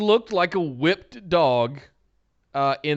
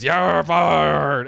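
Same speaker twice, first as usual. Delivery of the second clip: loud, growly gravelly boss voice; Vince McMahon impression; 5 dB louder than usual. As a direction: bark it like Vince firing someone. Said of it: "screams in a very Vince, growly, gravelly voice".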